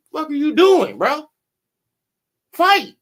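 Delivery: high, loud yell telling him to fight; mock shout at fighter. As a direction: bark at the boxer from ringside. Yelling at Tank in the ring.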